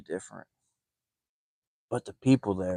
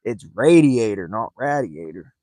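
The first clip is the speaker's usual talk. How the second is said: first "radiator" louder, second dropped; correcting contrast; 5 dB louder than usual. Retold or imitated. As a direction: set the right word against the wrong one. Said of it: "I said".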